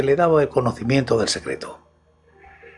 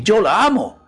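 higher, louder impassioned outburst; grito fuera de sí; 7 semitones higher, 5 dB louder than usual. A narrator's reading. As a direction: cry it out, beside yourself. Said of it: "gritó Morrel fuera de sí". (grito apasionado, fuera de sí)

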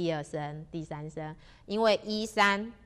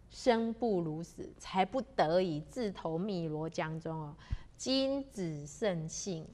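slow, measured recital of classical prose; classical oration; 4 dB louder, slower than usual. A narrator's reading. Drowned poet addresses the minister, in slow formal oration. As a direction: declaim each phrase deliberately, drawing out key words.

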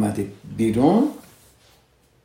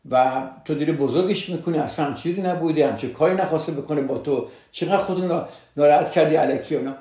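mildly scolding, pitched up; dismissive protest; 4 semitones higher, faster than usual. Retold or imitated. Husband telling his wife she overreacts, dismissive. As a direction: imitate a husband making light of it.

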